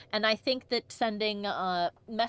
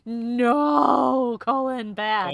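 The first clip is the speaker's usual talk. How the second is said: louder mock scold, like to a dog; 3 semitones higher, 10 dB louder, much slower than usual. Player scolding the advisor Colin in jest, loud. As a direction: scold him like a naughty pet.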